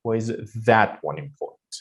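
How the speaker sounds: "that" emphasized, the other words light; stress on THAT. Shown as a demonstration. Teacher not caring about the others, stress on "that". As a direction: pick out "that" in "Why is that one important". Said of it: "I don't care about, uh, others".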